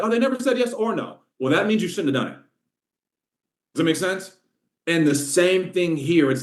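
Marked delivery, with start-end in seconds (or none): 0.0-1.2 mock excuse. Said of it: "You'd be like".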